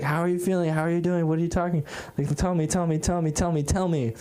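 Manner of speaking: lightly voiced dad pressing with questions; a touch of a pestering parent; insistent dad. Imitating dad's insistent questions.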